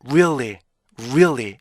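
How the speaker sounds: "really" as ree-ul-lee, glide then fall; rounded rise and fall on "really"; native-reader REALLY. Shown as a demonstration. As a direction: keep a hidden beat inside "really". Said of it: "이렇게 읽어야 되고요".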